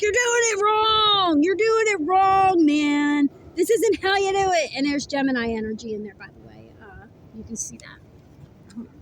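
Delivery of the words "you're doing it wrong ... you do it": mock narcissist boss yelling at his staff; imitated yelling boss. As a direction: bark the corrections like a furious boss. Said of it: "he's yelling at all these people like".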